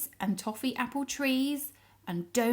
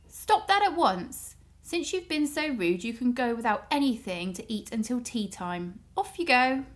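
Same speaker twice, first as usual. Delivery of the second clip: raised, firm telling-off; stern scolding. Acted. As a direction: scold them like a cross mother. Kitty scolds the rude guests.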